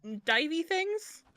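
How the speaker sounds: mock bravado. Taunting sea creatures, loud and high.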